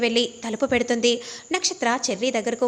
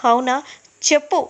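higher and louder, pressing for an answer; father angrily demanding that Nakshatra answer; angry demand; 3 semitones higher, 4 dB louder than usual. Retold or imitated. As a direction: snap at her to speak up. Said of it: "అనగానే ఇక కోపంగా".

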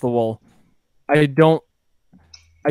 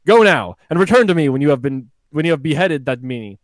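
a lightly voiced pompous king; booming royal proclamation, hammed up; roaring tyrant king. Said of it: "King Steve".

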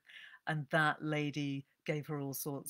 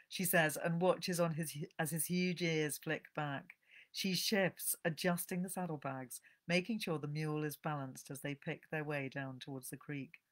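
measured, evocative audiobook narration; story reading. A narrator's reading. Host reading a novel's opening to her listeners, narrating. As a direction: draw listeners into the snowy forest.

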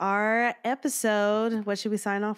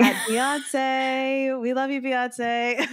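excited shout-out; 4 semitones higher, much slower than usual. Pretend. Echoes the shout-out to a singer.

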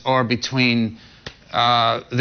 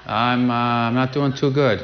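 satellite phone delay. Real, not acted. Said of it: "live via satellite from Los Angeles".

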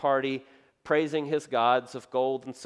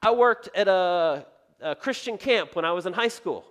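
someone listing church credentials; eager acquaintance; 5 semitones higher, 5 dB louder than usual. Retold or imitated. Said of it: "I hear this".

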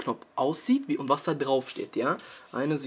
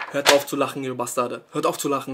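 louder, irritated telling-off; angry scolding; 3 semitones lower, 5 dB louder than usual. Real, not acted. Vlogger scolding viewers who laugh at him, irritated. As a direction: snap at them to stop laughing.

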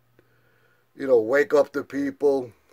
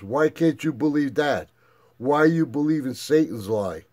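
1 heated lecture; 4 semitones higher, 4 dB louder than usual. Retold or imitated. Lecturing daughter on flat earth.

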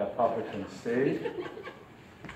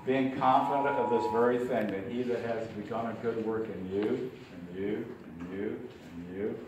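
scripture recitation; 4 dB quieter than usual. Real, not acted. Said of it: "remember Philippians one six".

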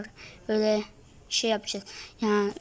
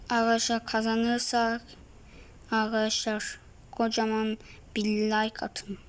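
whisper; 3 semitones lower, 6 dB quieter than usual. Real, not acted. Sudden whispered aside to viewers.

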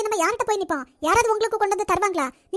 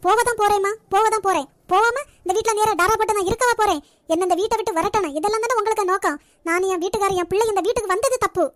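loud, bitter shouting back at the family; angry shouting; 4 dB louder than usual. Acted. Daughter-in-law shouting at the family as she leaves, loud and angry. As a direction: hurl it back, furious and wounded.

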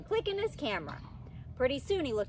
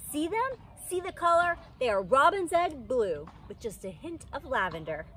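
Lucille showing off; 4 semitones higher than usual. A narrator's reading. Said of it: "she told the cheese man".

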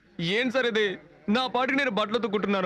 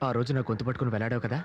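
low menacing taunt; 10 semitones lower than usual. Acted. Threatening taunt to her.

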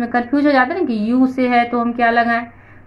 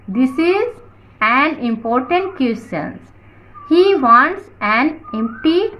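slow, measured English read-out; teacher reading aloud; much slower than usual. Shown as a demonstration. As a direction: read the rule out word by word. Reads example sentences slowly. (धीरे-धीरे पढ़कर सुनाना)

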